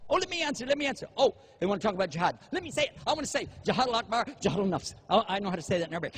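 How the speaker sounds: mock the over-eager answerer; eager know-it-all. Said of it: "They just want to jump out and give answers".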